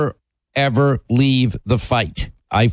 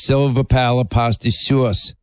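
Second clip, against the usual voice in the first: a light mock New York accent on "Silver pala pasta sauce", with silver said as "silva" and sauce as "suas". Host teasing Linda's New York accent, a light mock imitation. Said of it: "And she says".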